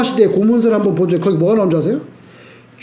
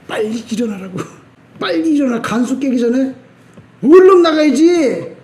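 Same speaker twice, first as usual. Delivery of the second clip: half-whisper, then a higher pressing urge to run; urgent whisper then call; 3 semitones higher than usual. Pretend. Preacher voicing Paul urging Silas to flee, hurried.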